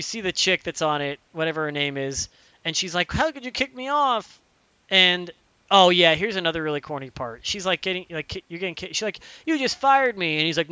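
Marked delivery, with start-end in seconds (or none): 3.1-4.4 higher-pitched mock indignation; hurt protest. Crew woman confronts the clone for kicking her off, indignant. 9.4-10.4 higher-pitched mock indignation; indignant protest. Fired crew woman confronts the fake Shepard, indignant.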